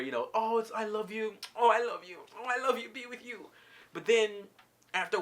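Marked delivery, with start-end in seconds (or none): 0.3-3.5 mock lovey-dovey. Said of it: "there's that honeymoon phase".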